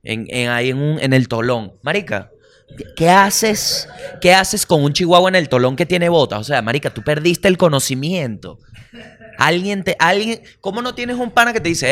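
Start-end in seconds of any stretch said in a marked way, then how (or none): 2.8-6.4 high, laughing what-are-you-doing; cracking up in disbelief; incredulous laugh at a dog in boots. Real, not acted.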